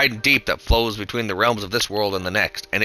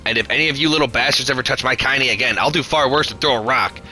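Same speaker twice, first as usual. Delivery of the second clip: thick with rage; 4 semitones higher than usual. Acted. Grandmother threatening the bullies who beat Kaine, in a rage. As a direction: scold the bullies like an angry old crone. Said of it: "in a voice thick with rage".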